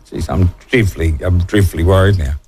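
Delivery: mock worried, low and drawn; sarcastic worry. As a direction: pretend to be dreadfully worried. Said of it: "taking the piss out of Bella".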